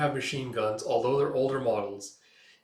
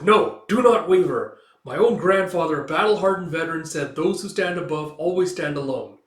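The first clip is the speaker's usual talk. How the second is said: higher, louder, firm self-command; stern resolve; 4 semitones higher, 7 dB louder than usual. Acted. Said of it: "He's like".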